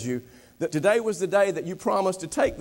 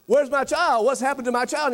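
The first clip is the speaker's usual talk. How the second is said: mock frantic; 4 semitones higher than usual.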